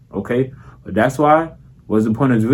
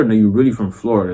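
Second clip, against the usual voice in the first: fast, thick Florida street accent; heavy Florida accent; faster than usual. Shown as a demonstration. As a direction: lean all the way into Florida, quick and loose. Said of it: "two different ways you talk like you from Florida".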